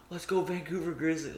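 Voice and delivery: half-volume retold cheering; imitated fan cheer. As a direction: imitate a hyped fan chanting. Imitating hyped fans at a game.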